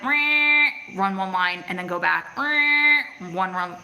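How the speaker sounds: loud, drawn-out printer whine between phrases; mock printer noise, held on one note; imitated printer. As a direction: mimic an old printer slowly grinding out lines. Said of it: "The printers would be like".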